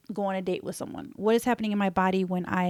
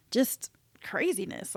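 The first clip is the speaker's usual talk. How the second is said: whispered aside; 5 dB quieter than usual. Real, not acted. Whispered emphasis on body chaos.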